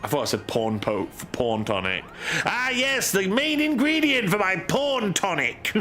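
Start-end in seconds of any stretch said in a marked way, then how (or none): 2.4-5.7 high moogle voice. Acted. Voicing moogle NPC dialogue.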